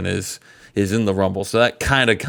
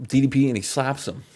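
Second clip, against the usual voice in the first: Booker T voice; 3 semitones lower than usual. Retold or imitated. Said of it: "I'm Booker T saying this".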